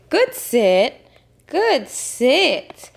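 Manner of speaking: high, happy dog praise; praising a dog. Real, not acted. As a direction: praise the pup sweetly.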